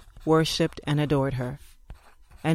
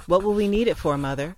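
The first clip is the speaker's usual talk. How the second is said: mild shout; 3 semitones higher than usual. Retold or imitated. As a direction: call out the question from the back. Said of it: "someone shouted".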